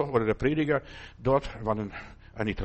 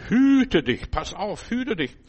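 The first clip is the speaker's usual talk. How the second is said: hüte dich, called out loud and high; preacher's loud, high warning; 6 semitones higher, 5 dB louder, slower than usual. Real, not acted. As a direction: sound the alarm to the congregation.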